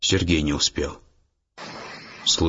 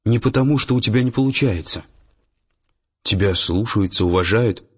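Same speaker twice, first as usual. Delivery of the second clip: higher, lightly anxious reassurance; hurried reassurance; 4 semitones higher than usual. A narrator's reading. Nastya fears offending Sergei, mildly hurried reassurance. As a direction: soothe him with a raised, careful voice. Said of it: "заторопилась Настя, боясь обидеть".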